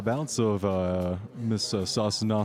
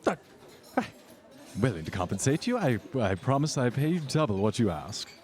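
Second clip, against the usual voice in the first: socialite voice; 3 semitones higher than usual. Acted.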